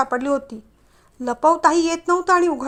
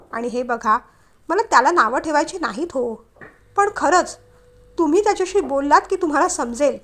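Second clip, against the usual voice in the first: angry. Acted. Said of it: "तिने रागाने विचारलं".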